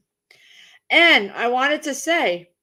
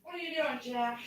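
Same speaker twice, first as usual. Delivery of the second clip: calling out; 13 dB quieter than usual. Real, not acted. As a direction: call it across the room. Calling out to Jeff again.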